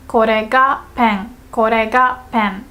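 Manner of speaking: slow, "Kore ga" leaned on; emphasize "Kore ga" before a short "pen"; teacher's slow model stressing "Kore ga". Shown as a demonstration. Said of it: "put emphasis on the word this".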